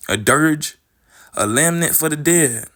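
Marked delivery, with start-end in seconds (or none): 0.1-0.8 "dirge" said slowly as one clear syllable; careful pronunciation. Shown as a demonstration. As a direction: sound out "dirge" deliberately. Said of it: "Let me see something".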